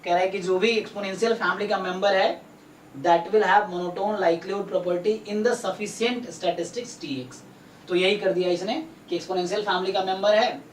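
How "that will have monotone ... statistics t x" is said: slow, word by word, for notes; dictating pace; slow dictation. Shown as a demonstration. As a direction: spell it out slowly so they can write. Tutor dictating theorem statement.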